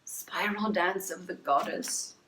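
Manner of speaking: slow, hushed, savoring the name; slow mystical reading of Spiral Dance of the Goddess; reverent title reading. Shown as a demonstration. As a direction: announce it like a sacred title. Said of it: "repeated title".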